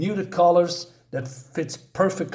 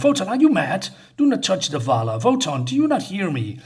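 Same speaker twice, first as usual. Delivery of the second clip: alarmed wife; 4 semitones higher, faster than usual. Acted.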